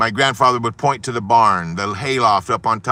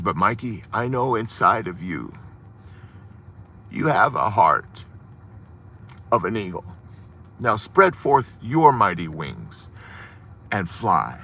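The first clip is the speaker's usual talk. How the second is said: tender blessing. Retold or imitated. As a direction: lay it gently on his heart. Grandfather blessing young Mikey.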